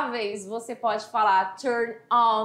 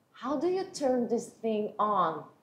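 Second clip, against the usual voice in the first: soft, hushed voice with rising intonation; 5 dB quieter than usual. Acting out a boy with a book asking his friend: quiet hushed question. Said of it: "Eu fiz entonação que é uma pergunta, mas uma pergunta seguida de tipo, vou falar baixinho".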